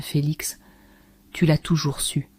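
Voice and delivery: hushed, unvoiced secret; whisper. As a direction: breathe it close to his ear. Greta confides intimately.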